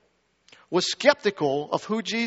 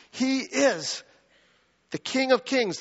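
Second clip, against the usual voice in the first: proclaiming; 7 semitones higher than usual. Acted. Preacher proclaims the Messiah.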